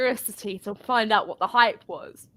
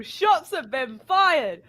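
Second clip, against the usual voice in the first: mock alarm; 4 semitones higher, 4 dB louder, much slower than usual. Announcing the burn dramatically.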